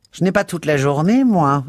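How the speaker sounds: high, loud, huffy charwoman; impatient Mrs Biggs. A narrator's reading. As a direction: snap it up high and put out.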